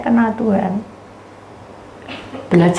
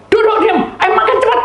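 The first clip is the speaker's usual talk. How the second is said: higher, louder mock order; stern mother; 14 semitones higher, 4 dB louder, faster than usual. Mother ordering the boy to eat fast, higher and louder. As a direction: hurry the child to eat.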